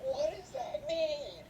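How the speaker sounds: hammed-up mother losing it; a hammed-up mom shouting at her son; outraged mom. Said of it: "the mom's like".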